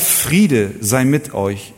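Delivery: langsam und feierlich, jedes Wort getragen; feierlicher Gruß. Retold or imitated. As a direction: den Friedensgruß würdevoll sprechen. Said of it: "war nicht einfach nur eine Begrüßung". (feierlich gesprochener Friedensgruß)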